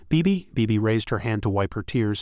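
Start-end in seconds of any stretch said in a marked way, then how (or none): 0.1-0.5 bewildered. A narrator's reading. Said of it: "looked at her in bewilderment".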